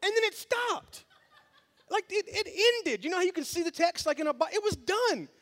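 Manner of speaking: high, laughing retelling; laughing disbelief. Real, not acted. Pastor laughs at the text that just ended. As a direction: chuckle through the memory.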